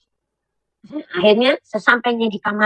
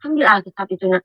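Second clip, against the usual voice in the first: mysterious voice; 3 semitones lower, 3 dB quieter than usual. Retold or imitated. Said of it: "ada satu suara".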